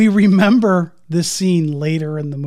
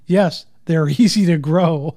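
deadpan. Retold or imitated. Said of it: "I just love the, the dryness".

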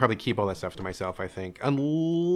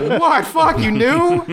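high, loud laughing disbelief; stunned laughing; 13 semitones higher, 5 dB louder, much slower than usual. Retold or imitated. Hearing dad always knew, a high loud laughing shock.

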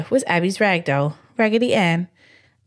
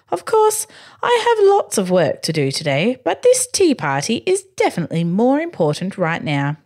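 aristocratic voice; 2 semitones higher than usual. Acted. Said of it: "he continued".

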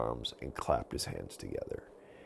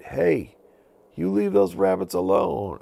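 louder, higher stern shout; angry shout; 13 semitones higher, 9 dB louder than usual. Acted. Avon yelling at witches on brooms, loud stern shout. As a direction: stop the thieves in their tracks.

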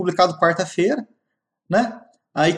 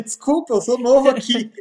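laughing apology; 6 semitones higher than usual. Retold or imitated. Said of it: "Eu falei".

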